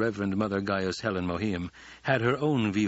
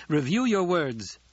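commanding; 7 semitones higher, 4 dB louder than usual. A narrator's reading. Paul commanding the truthsayer.

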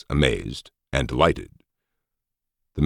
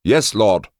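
bright-eyed, high and loud assent; obey gladly, pitched high; eager underling's high reply; happy agreement; 8 semitones higher, 5 dB louder than usual. A narrator's reading. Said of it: "Suki agreed happily".

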